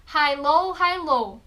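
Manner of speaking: "High, low, high, low" with the voice going up on high and down on low; high-low alternation. Shown as a demonstration. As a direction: sing out the tone contrast. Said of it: "alternância entre alto e baixo".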